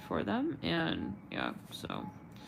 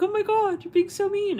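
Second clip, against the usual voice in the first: high, loud whiny protest; whiny complaint; 13 semitones higher, 8 dB louder than usual. Retold or imitated. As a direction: wail it like a hurt victim. Imitates people complaining about dark angels.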